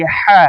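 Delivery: "ہا" with a tight throat h. Shown as a demonstration. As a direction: push the h of "ہا" out of the throat. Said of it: "حلق سے آواز نکالیں گے". ("ہا" حلق سے نکال کر)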